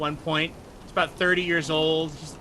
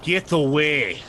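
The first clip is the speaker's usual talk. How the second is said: louder, get away; angry sailor; 6 dB louder, slower than usual. Acted. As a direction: push him off loudly. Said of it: "he goes".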